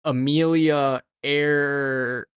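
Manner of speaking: slow, deadpan comic reveal; very slow drawn out. Acted. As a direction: stretch every word, pausing long. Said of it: "Blaze Birch's cousin".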